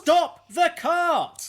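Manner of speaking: high, loud, slow scream of fear; terrified shout. Acted. Daksha shouting at the deaf driver, terrified. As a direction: scream it in terror.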